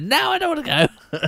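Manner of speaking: high, breathy old lady impression; imitating Mary. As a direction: squeak it out like an elderly lady. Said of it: "her voice is a little bit more breathy".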